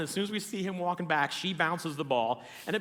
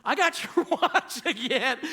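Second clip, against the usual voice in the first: high, loud, drawn-out taunt with a laugh; imitated holler, slow and triumphant; gleeful retold yell; 8 semitones higher, 5 dB louder, slower than usual. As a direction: crow it down the aisle, laughing. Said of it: "I yell down".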